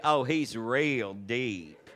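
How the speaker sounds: slow, low Southern drawl; hammed-up Southern twang, long vowels; Southern accent. Shown as a demonstration. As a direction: stretch it out like a Southerner. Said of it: "If you were from the South".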